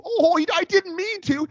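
high-pitched mock innocence; mocking excuse. Host ridiculing excuses for high sticks, mocking. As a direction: mimic a feeble apology in a high voice.

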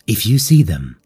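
creepy man's voice, slowing at the end; sweet creepy coaxing. A narrator's reading. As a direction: coax her like a sinister stranger. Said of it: "heard the creepy man's voice".

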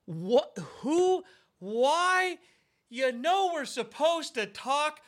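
high, loud, baffled and laughing; exasperated disbelief. Real, not acted. Friend who never called back, exasperated high disbelief. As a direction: throw up your hands in disbelief.

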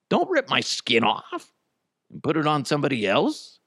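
mock frightened protest; mock plea. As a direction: beg for mercy in a pretend voice. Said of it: "she's trying to get on their good side".

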